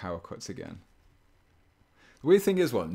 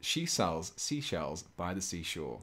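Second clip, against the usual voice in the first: slow, deliberate, every word placed; careful tongue twister; slower than usual. Shown as a demonstration. Streamer testing a tongue twister on chat, slow and careful. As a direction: ease through the twister slowly. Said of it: "I just want to say it once".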